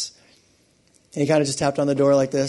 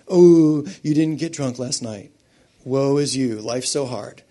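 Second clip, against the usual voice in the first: drawn-out "Oh" of mock sympathy; mock pity; slower than usual. Preacher teasing someone who missed a drinking night, mock pity. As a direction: feign sympathy with an exaggerated opening "Oh".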